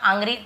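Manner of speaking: "आंग्री" as aang-gree; deliberately wrong open aa in "आंग्री"; wrong aa pronunciation. Shown as a demonstration. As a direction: misread angry as "आंग्री", long aa first. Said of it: "नहीं बोल रहा हूँ ना".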